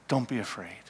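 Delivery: soft, gentle comfort to a frightened man; quietly tender Jesus; tender reassurance. Acted. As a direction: soothe him, don't startle him. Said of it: "in compassion and love and forgiveness".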